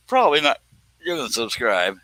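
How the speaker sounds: talking through hiccups; hiccuping mid-sentence. Real, not acted. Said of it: "I keep hiccuping while I'm talking".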